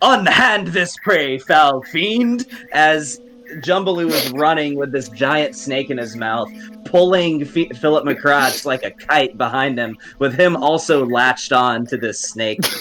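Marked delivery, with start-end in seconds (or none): 0.0-2.5 furious, indignant yell, high and drawn out. Voicing a creature fighting over prey, angry character shout. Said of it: "just angrily".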